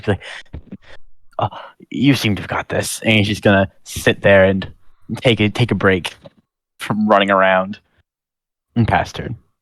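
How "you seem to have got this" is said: out-of-breath, puffing, winded delivery. Voicing a warrior in heavy armor taking a break: panting in character. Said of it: "panting a little bit in his heavy armor".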